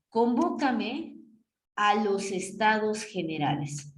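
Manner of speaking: slow, drawn-out command in an odd voice; slow demo. Shown as a demonstration. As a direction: stretch each word as the king's order. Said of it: "Vas a convocarme a los estados generales".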